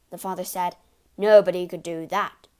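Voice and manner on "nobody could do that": blustering boast. Acted. Father boasting.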